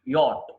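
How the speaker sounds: యాట్ as one syllable "yot"; correct pronunciation. Shown as a demonstration. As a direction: say యాట్ with silent "ch". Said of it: "యాట్ అనాలి". (యాట్ ఒకే అక్షరంగా)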